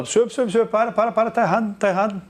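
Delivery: acted pupil calling the teacher to stop; interrupting student. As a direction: butt in like a student spotting a mistake. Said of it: "Você fala".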